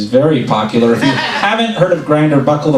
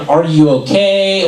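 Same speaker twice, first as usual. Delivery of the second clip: concerned question; 3 semitones higher, slower than usual. Retold or imitated. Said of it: "Not even, like, an".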